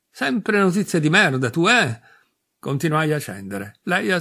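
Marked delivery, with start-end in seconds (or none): 0.1-2.0 sbotto irritato. Acted. Phil sbotta contro Ilaria.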